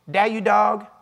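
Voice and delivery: lightly mimicked little girl; a hint of a kid's blunt dialect question; little girl's dialect. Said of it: "This is the way she talked".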